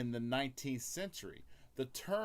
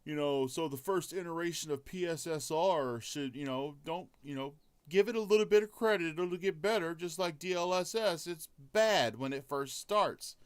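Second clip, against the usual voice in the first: mocking what everybody says; 3 semitones higher than usual. Host mocking fans who excuse the new upscaler, higher and faster. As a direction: parody the forgiving fans. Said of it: "so everybody's saying".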